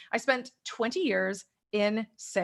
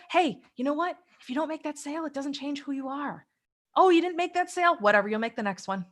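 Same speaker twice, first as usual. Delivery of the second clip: encouraging parent voice; 5 semitones higher than usual. Retold or imitated. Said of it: "the nurturing parent".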